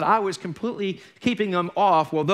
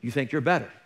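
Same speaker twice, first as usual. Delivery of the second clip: the Lord's rebuke; 3 semitones lower than usual. Retold or imitated. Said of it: "and the Lord showed me".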